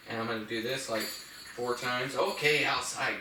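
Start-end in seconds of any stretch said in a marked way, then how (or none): 2.2-3.2 "outside" drawn out slowly as a cue; slow down and mark "outside" for the dog; emphasis on OUTSIDE. Shown as a demonstration. Trainer repeating the door cue, "outside" slow and emphasized. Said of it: "I'm gonna emphasize the word outside".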